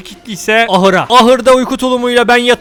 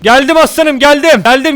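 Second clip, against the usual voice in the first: loud call across the snow, higher; 4 semitones higher, 4 dB louder than usual. Real, not acted. Calling to his partner across the mountain, loud and high. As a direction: shout out that help has arrived.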